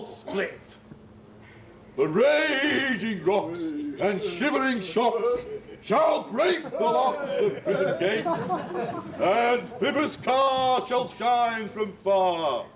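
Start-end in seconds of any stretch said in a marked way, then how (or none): 2.0-12.7 slow grand declaiming of a tyrant; lofty ranting tyrant. Acted. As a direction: rant it out like a stage Hercules. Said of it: "This was lofty".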